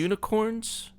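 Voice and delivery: high, amused echo of the word; amused surprise. Real, not acted. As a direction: bounce it back in disbelief. Echoing the joke guess.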